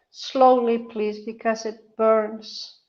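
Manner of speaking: soft, slow, pained plea. Real, not acted. Patient asking nurse to go slowly, soft pained plea. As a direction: ask gently through the burn. IV burning.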